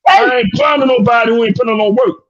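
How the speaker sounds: emphatic shout. Real, not acted. To the panel, repeating himself with a hard emphatic shout. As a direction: shout it so nobody misses it.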